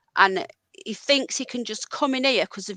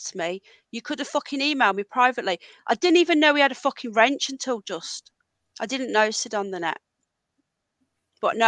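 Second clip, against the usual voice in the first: real anger, hammering each point home; fuming; 2 semitones higher than usual. Real, not acted. Streamer rants at Ron over the apology, furious. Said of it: "I am fucking fuming".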